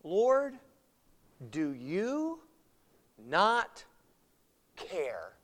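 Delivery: gentle, spaced-out plea; nicer way. Retold or imitated. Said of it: "in a nicer way".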